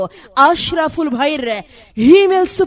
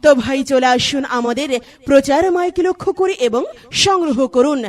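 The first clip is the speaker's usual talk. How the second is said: chipper 1950s ad. Acted. Mic promo read.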